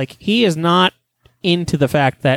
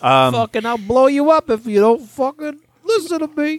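Pinhead threat; 8 semitones higher than usual. Acted. Pinhead bit again.

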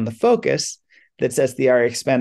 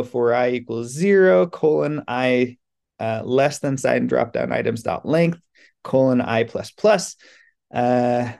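dictating code. Shown as a demonstration. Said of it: "I was trying to say it all so that people who can't, um, actually, you know, see".

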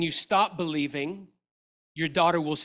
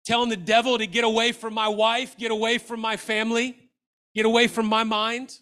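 higher and louder, commanding the devil; preacher shouting at the devil, higher and louder; screaming declarations; 4 semitones higher, 4 dB louder than usual. Retold or imitated. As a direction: rebuke it with force. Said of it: "Because I was screaming".

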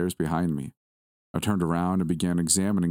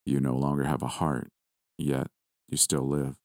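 deep-voiced villain; 4 semitones lower than usual. A narrator's reading. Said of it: "his deep voice said".

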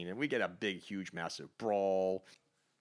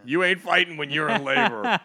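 emphatic; 8 semitones higher, 12 dB louder than usual. Real, not acted. Emphatic joke about labor.

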